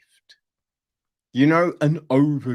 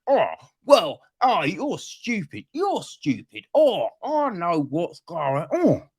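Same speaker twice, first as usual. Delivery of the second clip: hammed-up confrontational huff, a little raised; mock spicy; 4 semitones higher than usual. Experts squabbling in the room, mock spicy. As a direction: imitate someone getting snippy in a meeting. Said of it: "getting all, you know what I mean, spicy".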